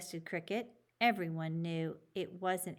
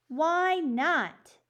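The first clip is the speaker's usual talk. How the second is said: high, loud indignant why not; loud protest; 8 semitones higher, 7 dB louder than usual. A narrator's reading. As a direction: shout it out in protest. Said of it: "Julio called out".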